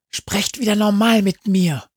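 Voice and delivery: ordinary delivery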